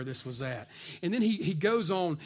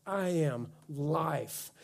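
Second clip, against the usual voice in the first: solemn declaration; 3 semitones lower, 5 dB quieter, much slower than usual. Acted. Preacher voices Jesus' declaration.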